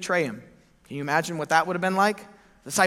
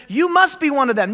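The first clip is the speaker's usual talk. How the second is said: raised, pressing accusation; suspicious bystander; 8 semitones higher, 8 dB louder than usual. Acted. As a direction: lean on "must". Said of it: "looked at him and said".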